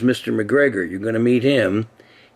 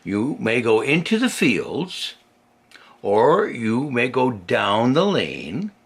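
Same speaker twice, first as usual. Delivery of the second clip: mother rabbit warning. Acted. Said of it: "said old Missus Rabbit".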